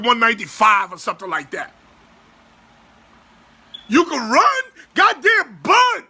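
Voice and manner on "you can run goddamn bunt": exasperated pleading. Real, not acted. Exasperated plea to the player.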